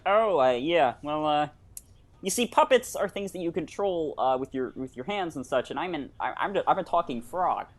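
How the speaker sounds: Kermit the Frog impression; earnest Muppet frog voice. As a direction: talk like the hesitant talking frog puppet.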